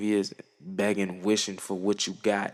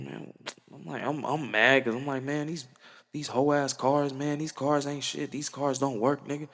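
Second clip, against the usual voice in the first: mock frustrated rant; 4 semitones higher than usual. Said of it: "I'm mad 'cause I'm like".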